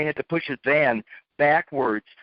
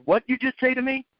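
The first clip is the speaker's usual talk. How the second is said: higher, incredulous snap; a retold what-did-you-say; mild mock outrage; indignant challenge; 8 semitones higher than usual. Confronting the kid.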